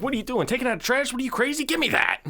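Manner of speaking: high-pitched indignant yell; hammed-up high indignant voice; mock angry neighbor. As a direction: squeal it like an outraged old man. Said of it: "He's like".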